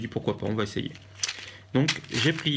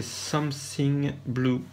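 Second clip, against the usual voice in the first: slow English words in a French accent; 2 semitones higher, much slower than usual. Real, not acted. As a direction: read the English brand name slowly, French accent. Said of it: "Désolé pour mon accent so british". (nom anglais lu lentement avec un accent français)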